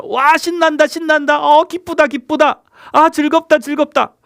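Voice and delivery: high, bright mock glee; hammed-up delight; excited cheer. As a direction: act out a giddy kid having fun. Acting out an excited person.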